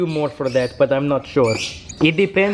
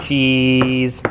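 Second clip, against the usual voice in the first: long, lower drawn-out "cheese"; photo-time cheese; 5 semitones lower than usual. Shown as a demonstration. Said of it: "So that's why they say it".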